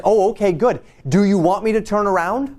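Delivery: Balaam pretending to obey the angel; mock eager compliance. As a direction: sound falsely obliging.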